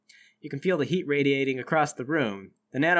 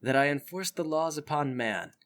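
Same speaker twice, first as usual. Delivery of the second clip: solemn nano man; 3 semitones lower, 5 dB quieter than usual. Acted.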